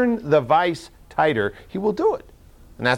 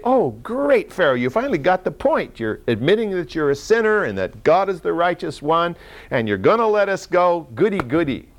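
higher-pitched, naively pleased mock reply; mock delight; 4 semitones higher than usual. Imagined gullible Moses replying to Pharaoh, in mock delight. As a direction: play at being gladly taken in.

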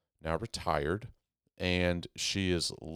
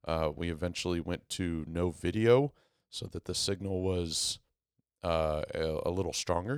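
hoarse voice after breathing tube; rough throat after intubation. Real, not acted. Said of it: "my voice. it's from the breathing tube".

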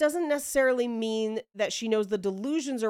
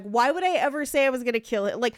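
flippant laughing-off; 3 semitones higher, faster than usual. Retold or imitated. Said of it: "laughing about it".

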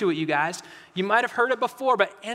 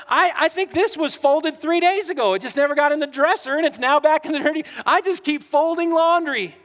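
higher, louder, fast fed-up rant; mock exasperated griping; exasperated complaint; 5 semitones higher, 4 dB louder than usual. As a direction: sound like you've folded this pile three times. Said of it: "You're going".

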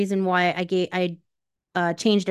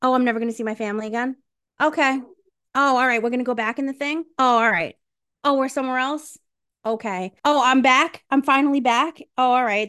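higher breezy shrugging voice; mock the hero's unbothered shrug; sing-song oh all right, a touch higher; mocking aloof; 4 semitones higher than usual. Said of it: "He was like".

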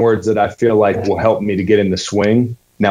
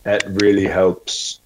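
learner's careful Scottish repeat; Scottish accent; 4 dB quieter than usual. Shown as a demonstration. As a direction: copy the coach's Scottish. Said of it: "You're Scottish all the way through".

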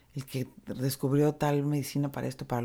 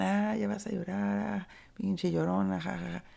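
mocking taunt; 4 semitones higher than usual. Wedding guests mocking someone crying.

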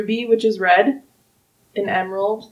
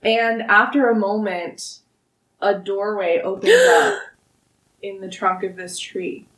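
storytelling narration. Acted. GM narrates the tree opening.

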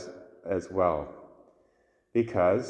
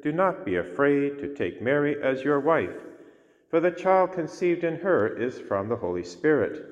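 Gospel reading. Acted. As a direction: proclaim it from the pulpit.

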